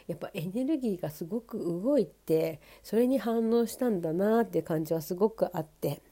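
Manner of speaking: stuffy nose from a cold; nasal voice. Real, not acted. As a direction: talk through a blocked, nasal nose. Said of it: "とにかく鼻声なんですね".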